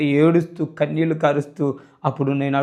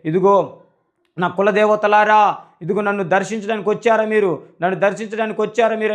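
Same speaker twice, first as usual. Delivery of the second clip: retold excited shout; 4 semitones higher than usual. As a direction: shout out in astonished hope. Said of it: "అరుస్తూ ఉన్నప్పుడు". (ఆశ్చర్యంతో ఎత్తైన గొంతుతో అరుపు)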